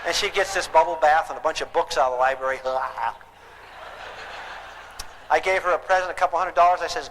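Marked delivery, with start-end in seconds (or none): 2.7-3.1 blissful sigh. Acted. Imitates daughter relaxing in bath.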